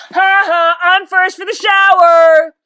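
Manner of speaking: high, loud gloating holler; full-voiced shout. A narrator's reading. Father races into the bathroom, shouting at the top of his voice. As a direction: crow it triumphantly, drawing out the end. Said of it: "shouting at the top of his voice".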